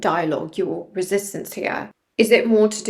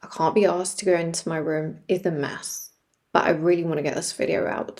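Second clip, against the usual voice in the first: echoey room; 2 semitones lower than usual. Real, not acted. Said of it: "this room is super echoey".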